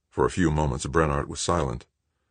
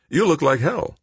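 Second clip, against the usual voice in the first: cheerful; 13 semitones higher, 5 dB louder than usual. A narrator's reading. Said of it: "Anson said cheerfully".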